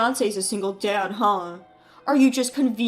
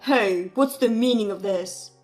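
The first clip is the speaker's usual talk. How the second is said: angry brother; 3 semitones lower, 4 dB louder than usual. Acted. Brother angrily calls about his missing invitation, loud. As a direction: demand an answer furiously.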